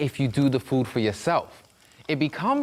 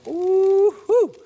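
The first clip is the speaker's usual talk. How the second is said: high, drawn-out "ooh-hoo"; delighted whoop; 7 dB louder than usual. Acted. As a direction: whoop it long and loud, up high. Imagining coworkers' delighted reaction.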